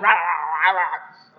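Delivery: gibberish "rah" yelling, trailing down; imitated raging rant. Driver ranting at closed window, mock yelling. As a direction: mimic muffled angry shouting in nonsense syllables. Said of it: "now you're yelling at me".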